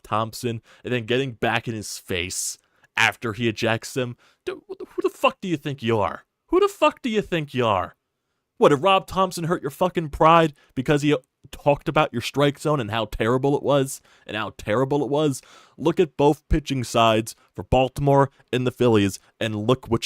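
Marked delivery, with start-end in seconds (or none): 4.4-8.0 much higher and louder, yelling at the umpire; furious shout. Real, not acted. Fan ranting at the umpire who tossed Rob Thompson, furious shout. 8.6-15.4 higher and louder, sneering at the umpire; mocking outrage, still shouting; angry rant. Real, not acted. Fan mocking the umpire's wounded pride, angry rant. Ranting at umpire who ejected manager.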